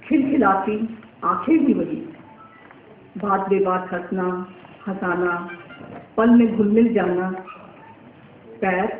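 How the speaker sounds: measured verse reading, phrases set apart by pauses; poem recitation. Acted. Poet reciting verses written for a young girl, measured poetic recital. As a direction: recite it line by line, letting each phrase settle.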